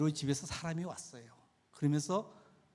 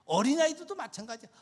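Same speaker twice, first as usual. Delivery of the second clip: ordinary talk, nothing marked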